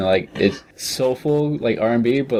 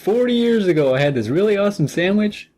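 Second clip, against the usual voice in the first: gruff survivor; 11 semitones higher than usual. Pretend. Playing apocalypse survivor.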